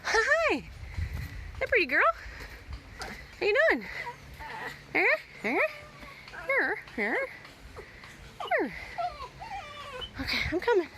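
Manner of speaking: high coaxing coo. Real, not acted. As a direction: call the dog sweetly, high. Coaxing the dog over.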